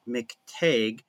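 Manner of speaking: "McTague" with a long A, like "tayg"; McTague as taught. Shown as a demonstration. Guest explaining his own name, "McTague" with long A. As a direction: say "McTague" to rhyme with vague. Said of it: "I was taught to pronounce it".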